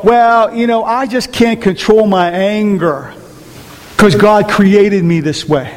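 slow, whiny excuse voice, lightly done; people making excuses. Retold or imitated. Pastor mimicking a congregant's excuse, slow and whiny. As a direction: drag it out like a lame excuse. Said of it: "many people will say to me".

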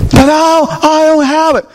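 high-pitched plea of a debtor; helpless protest. Acted. Fellow slave being choked for money, protesting high. Debtor answers man choking him.

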